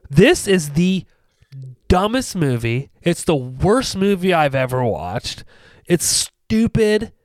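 slow, emphatic mock exasperation; retold anger. Retelling a reaction to a hated movie, mock mad. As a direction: draw out the insults, mildly fed up. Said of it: "I was so mad".

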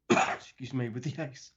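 throat catching after coughing. Real, not acted. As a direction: clear the throat and apologize. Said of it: "I just coughed".

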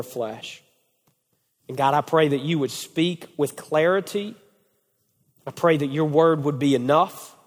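measured, subdued pastoral prayer; heartfelt closing prayer; earnest prayer. Real, not acted. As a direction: pray aloud for the group, pausing between petitions. Leads closing prayer for men.

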